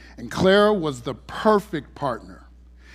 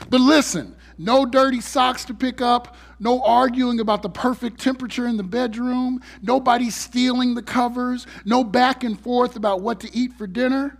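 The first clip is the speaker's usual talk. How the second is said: excited; 6 semitones higher than usual. Pretend. Mock enthusiastic pitch for AI.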